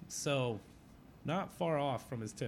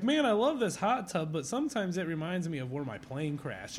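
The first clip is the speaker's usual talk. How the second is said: put-on old veteran voice; 4 semitones higher, 3 dB louder than usual. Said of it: "He's like".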